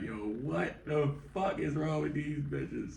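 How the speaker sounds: high, slow incredulous whine; slow stunned whine; laughing disbelief. Retold or imitated. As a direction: drag it out, half laughing.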